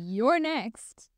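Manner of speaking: mock menacing; a hint of a threatening witch. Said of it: "Or in a, like, a threatening way".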